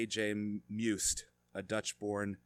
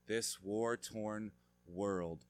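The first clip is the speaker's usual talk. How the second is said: usual speaking voice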